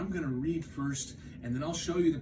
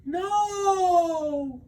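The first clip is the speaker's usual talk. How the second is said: high, loud little cry; small sad no; 10 dB louder than usual. Acted. Frog answering Toad, small high cry. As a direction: shrink as you answer. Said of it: "said Frog".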